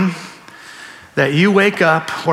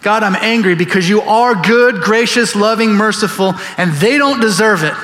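angry Jonah; 5 semitones higher than usual. Acted. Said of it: "that's where Jonah's at".

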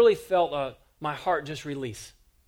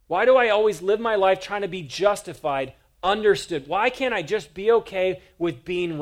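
louder, pressing question; rising preacher intensity; 2 semitones higher, 5 dB louder than usual. Acted. Preacher confronting the congregation, building in force. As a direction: push the question harder each time.

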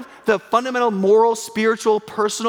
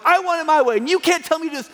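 mock tantrum; 6 semitones higher than usual. Preacher mocks people throwing a tantrum at Jesus, whiny. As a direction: act out a stubborn child. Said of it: "throwing a tantrum".

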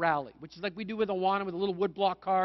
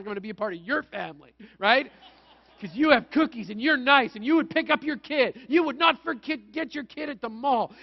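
put-on eager kid plea; 4 semitones higher, 6 dB louder than usual. Boy pleads with the lady.

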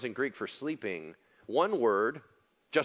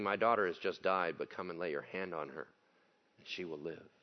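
soft, low earnest entreaty; hushed, understated imploring; earnest plea; 5 semitones lower, 5 dB quieter than usual. A narrator's reading. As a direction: read it as a quiet, earnest appeal. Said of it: "implored him earnestly".

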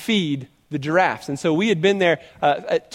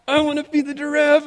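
put-on much higher, a little girl's eager call; eager child; 9 semitones higher than usual. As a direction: jump in like an excited kid picking herself. Daughter eagerly volunteers at zoo.

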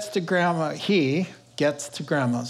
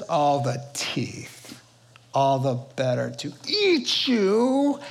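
wolf's drawn-out menace; slower than usual. Acted. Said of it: "the wolf ... Says".

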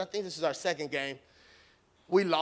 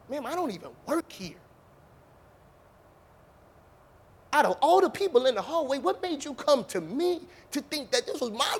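indignant, rising and louder retort; imagined telling off; 4 semitones higher, 6 dB louder than usual. Pretend. Coach imagines scolding the lady with the purse, exasperated. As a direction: let her have it, half-joking exasperation. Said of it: "I wanted so bad to just cuss her out".

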